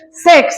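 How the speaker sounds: সিক্স opening on a clear English s; teacher's model সিক্স as "seks"; clear S sound. Shown as a demonstration. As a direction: hiss the s at both ends of সিক্স. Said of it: "এস এর উচ্চারণ".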